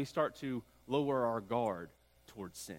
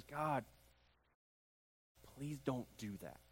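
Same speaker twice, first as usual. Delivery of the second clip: soft plea; 9 dB quieter than usual. Retold or imitated. Moses pleading with God.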